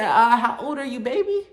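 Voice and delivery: high, sugary mock voice; mocking a sweet-talking agent; imitating the lady. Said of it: "She said".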